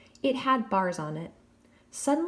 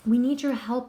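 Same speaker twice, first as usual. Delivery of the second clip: louder, pleading call; urgent cry; 4 semitones higher, 4 dB louder than usual. Acted. Daphne crying out to Jack for help, louder and pleading. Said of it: "Daphne cried".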